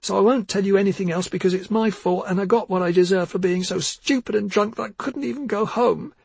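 high, rising tearful insistence. Acted. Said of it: "Missa's voice grew louder".

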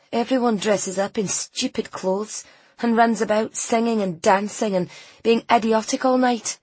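put-on disdainful young character voice; sulky girl. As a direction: grumble like a teenager who hates festivities. Voices sulky girl Ainsley complaining.

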